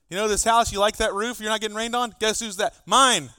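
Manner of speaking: parental rant. Retold or imitated. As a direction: rant at the son, building to the last line. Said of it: "I go on this big rant".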